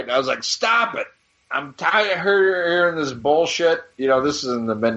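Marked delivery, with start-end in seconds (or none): 0.4-3.8 higher, irritated stop it; mock annoyed. Young fan snaps at photographer, higher and irritated. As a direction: brush him off, higher and fed up.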